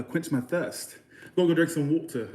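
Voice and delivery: attempted English accent, halting; amateur English accent. Shown as a demonstration. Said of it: "good at the English accent".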